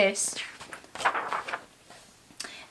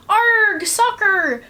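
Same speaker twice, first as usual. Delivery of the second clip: much higher, louder growl of joy; pirate yell; 9 semitones higher, 3 dB louder, much slower than usual. Acted. Captain kicking the ball on deck, yelling. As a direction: bellow it as he kicks. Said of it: "kicked the ball and yelled".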